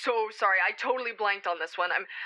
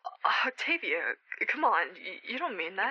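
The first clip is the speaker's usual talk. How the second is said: stunned plea; 2 semitones lower, slower than usual. Acted. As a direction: draw out "Octavia" slowly as it sinks in. Friend ends friendship, stunned.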